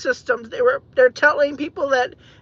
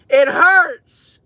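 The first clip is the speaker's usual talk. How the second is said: real crying, voice louder and breaking; choking up over the shooting, louder; 2 semitones higher, 5 dB louder than usual. Real, not acted. Upset man crying out over the shooting. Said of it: "It hurt me".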